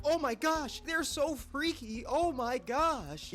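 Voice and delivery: high, slow, breathless gush; mock gushing fangirl. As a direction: gush like a starstruck fan. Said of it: "They expect everyone to go like".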